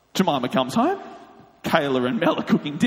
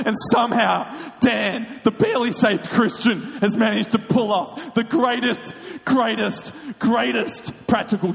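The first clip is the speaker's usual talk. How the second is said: higher, emphatic disbelief; incredulous amazement; 5 semitones higher than usual. Retold or imitated. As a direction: marvel at the prank, hitting each word. Retells friend's amazement at prank.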